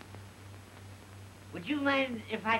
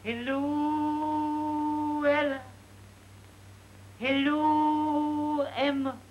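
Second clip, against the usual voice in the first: high ringing call up the stairs; 6 semitones higher, 4 dB louder, much slower than usual. Retold or imitated. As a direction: call up the steps, high and loud. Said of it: "I'd cry out".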